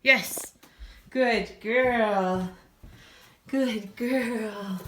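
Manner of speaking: high, loud puppy praise; squeaky praising a dog. Real, not acted. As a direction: gush over a good puppy. Praising puppy after quiet.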